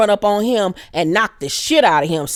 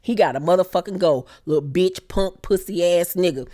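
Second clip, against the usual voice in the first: low seething mad; 2 semitones lower than usual. Real, not acted. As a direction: growl it low, done with him. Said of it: "I was so motherfucking mad".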